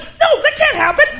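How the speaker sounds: hammed-up horror; mock panic. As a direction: cry out at the screen. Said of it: "I just went".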